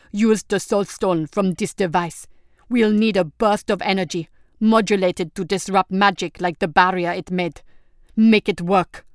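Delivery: a steady leader giving orders; commanding prince. Acted. Prince gives engineers orders.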